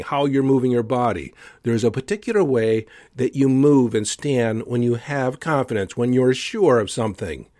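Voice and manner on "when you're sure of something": ordinary talk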